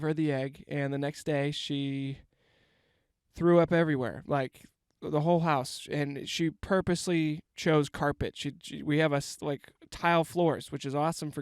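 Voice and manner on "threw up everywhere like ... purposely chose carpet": yelling. Real, not acted. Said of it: "I'm yelling".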